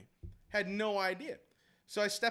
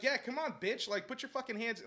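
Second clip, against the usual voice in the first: higher-pitched retold challenge; retold losing it; 5 semitones higher than usual. Coach squaring up to the other dad, heated retelling. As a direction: egg him on in a retold fight. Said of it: "I started cussing. I, I lost it".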